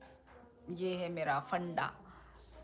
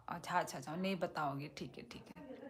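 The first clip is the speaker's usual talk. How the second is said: mock sulk; 3 semitones lower, 6 dB quieter, faster than usual. Viewer refuses to tell the message.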